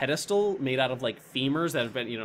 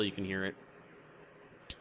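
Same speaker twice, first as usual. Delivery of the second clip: whispering; 5 semitones lower, 11 dB quieter, much slower than usual. Acted. GM builds suspense.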